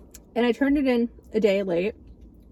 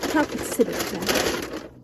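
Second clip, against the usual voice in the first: sarcastic; 3 semitones lower than usual. Real, not acted. Sarcasm about small portion.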